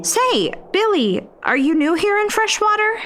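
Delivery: Jonquil's voice. Acted. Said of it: "Jonquil asked him".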